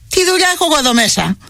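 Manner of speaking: shouting in alarm to flee; panicked shout. A narrator's reading. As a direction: blurt it out in panic. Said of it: "φώναξα".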